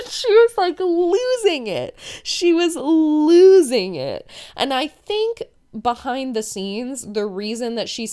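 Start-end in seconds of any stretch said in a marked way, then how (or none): 0.1-4.3 laughing. Real, not acted. Retelling outburst, laughing.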